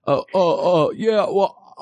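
a hint of a gruff TV therapist; Doctor Phil voice. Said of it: "I am Ben's father".

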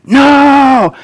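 high-pitched imitation of a yelling kid; child's yell. Son refusing dad at toothbrushing, high mock yell. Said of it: "he just yells".

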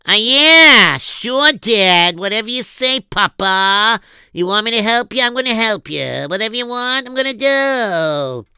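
hammed-up obedient young son; eager son. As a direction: gush like an eager-to-please boy. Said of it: "How's that, Rabbi Erfs? Am I doing pretty good?".

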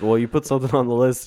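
fast mock quote of a friend. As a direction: quote your friend quickly and teasingly. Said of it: "And then you're just like".

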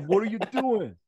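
high, loud hammed-up Italian voice; mock Italian accent. Co-host playfully echoing the speaker's prayer, mock Italian accent. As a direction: tease with an over-the-top Italian accent. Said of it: "that in an Italian voice".

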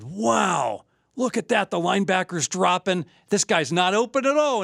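excited TV analyst voice; mildly hyped color commentary; Chris Collinsworth. Retold or imitated. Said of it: "And Chris Collinsworth said".

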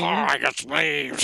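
slow, imitating his own Australian accent; drawn-out Aussie voice, lightly mocked. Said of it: "when he gets to use his regular accent".

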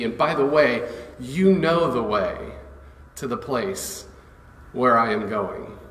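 loose, everyday paraphrase of Jesus' words; casual retelling. Pretend. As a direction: say it like a friend just talking. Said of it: "who talks like that?".

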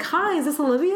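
high, loud, comic phone voice; funny caller voice. Retold or imitated. Show's caller asking for her, high funny voice. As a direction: imitate a chirpy caller way up high. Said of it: "like, a funny voice".

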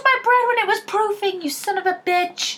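high, loud hammed-up baker's fury; mock fury. Sister playing an angry American contestant, high mock yell. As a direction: play a contestant losing it over bread. Acting a baking show fight.

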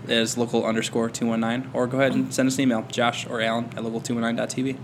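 radio announcer read; sultry radio voice. Pretend. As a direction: read it like a late-night DJ. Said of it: "My sultry radio voice".

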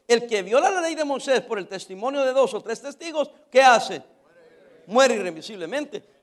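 emphatic declamation of the law; preached scripture reading. Acted. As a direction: read out the verse as a stern warning. Reads scripture to congregation. (lectura bíblica enfática)

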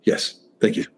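breathless whispered gratitude; young fan accepting the invite, whispering in awe; whispered thanks. Retold or imitated. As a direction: whisper it like you can't believe your luck. Invited to the cowboys' card game.

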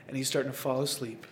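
dropped to a soft hush; hushed storytelling. Retold or imitated. Dad telling listeners, softly as baby falls asleep. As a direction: hush it like the baby's drifting off.

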